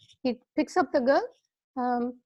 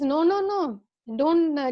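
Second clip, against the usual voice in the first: put-on a child's eager, louder objection; insistent protest; 2 semitones higher, 3 dB louder than usual. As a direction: cut him off, she won't be dismissed. Girl protests to the king.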